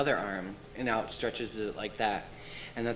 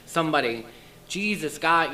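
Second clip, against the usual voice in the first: a mild mock cry for help, rising higher toward the end; half-voiced scream for help, louder on the last words; retold scream for help; 4 semitones higher, 4 dB louder than usual. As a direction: call out for help as if reliving it. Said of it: "I'm screaming".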